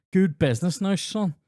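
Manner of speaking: a hint of an approving ma; lightly voiced approving mum. Imagined mum praising his deal.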